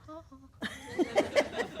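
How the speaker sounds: high, sarcastic "Ha, ha"; mock gloating laugh. Imagining gloating at the client who ignored her, high mock laugh. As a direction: gloat like an I-told-you-so.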